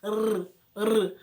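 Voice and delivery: "R, R" as two short rolled rrr sounds; single-R trill. Shown as a demonstration. Teacher showing the sound of one R, "R, R" trilled. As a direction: roll each "R" separately and loudly. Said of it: "um R só".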